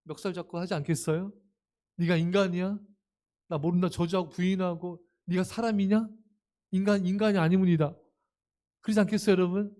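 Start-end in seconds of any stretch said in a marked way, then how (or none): 2.0-3.9 louder accusing outburst; hammed-up scolding of traitors; mock angry rebuke. Preacher acting an angry master berating deserters, louder. Acted angry reproach of disciples. 5.2-8.0 louder, higher accusing shout; mock angry rebuke. Preacher acting furious master yelling at disciples, loud. Acted angry reproach continues.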